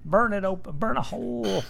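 excited. Acted. Excited plan to burn mouth.

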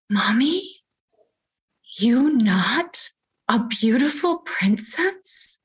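put-on whispered high child's question; little girl voice. Daughter questioning her mother.

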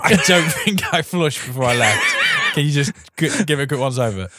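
words pushed out through laughter; giggly mock farewell; laughing while talking. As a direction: try to get the line out while cracking up.

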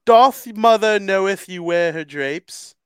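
Thor voice. Retold or imitated. Quoting Thor's movie line, in a booming mock-Thor voice. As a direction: declaim it like a pompous Norse god. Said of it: "I sounded more like Thor".

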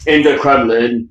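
slow, loud, high dimwit wail; hammed-up slow dunce voice; mock idiot. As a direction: drag it out like a dopey kid who lost something. Idiot act demands stolen lunchbox.

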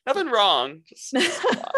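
high squeaky laugh through the words; laughing about Ron's view of Hermione. Real, not acted. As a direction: giggle it out, barely holding it together.

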